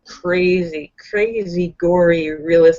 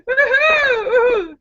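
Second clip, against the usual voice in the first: rallying cheer; 5 semitones higher, slower than usual. Real, not acted. Repeats rallying nerd call.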